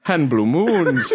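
slow, stretched stage Irish; Lucky Charms mascot. Acted. Reciting cereal pieces, drawn-out mock Irish accent. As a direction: list it in hammed-up Irish. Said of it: "the fucking Lucky Charms guy".

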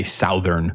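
"Southern" said as SOW-thern; mispronounced Southern. Retold or imitated. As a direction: give "Southern" the vowel of south. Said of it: "dumb kids I knew".

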